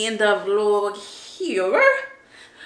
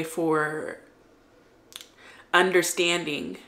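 tearful; 3 semitones lower, 4 dB quieter than usual. Real, not acted. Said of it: "I'm sorry for getting on here crying".

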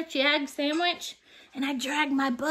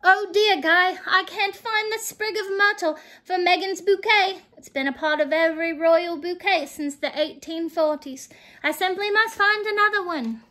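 Queen's voice; 4 semitones higher than usual. Acted. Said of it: "the Queen said".

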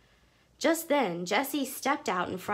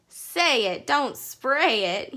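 teasing laugh; 4 semitones higher, 5 dB louder, slower than usual. Acted.

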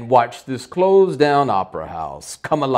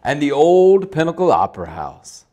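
spooky horror host voice; hammy haunted-house host; dark lord. Acted.

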